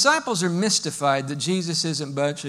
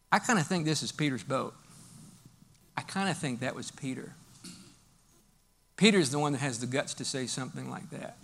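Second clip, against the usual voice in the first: ordinary talk, nothing marked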